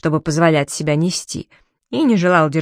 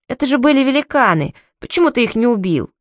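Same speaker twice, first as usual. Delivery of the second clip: put-on indignant child; 5 semitones higher than usual. Boy outraged after hiding.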